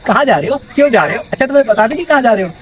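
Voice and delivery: mock nagging, questions run together quickly; nagging wife. Wife grilling husband on where he's going, mock nagging. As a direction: imitate a wife firing off questions.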